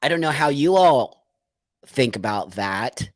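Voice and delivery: a quick whispered aside; confiding whispered aside. Real, not acted. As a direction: whisper it to the viewers. Aside to viewers.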